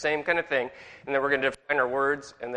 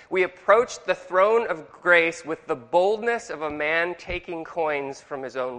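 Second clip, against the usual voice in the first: slow quote; 2 semitones higher, slower than usual. Retold or imitated. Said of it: "He said".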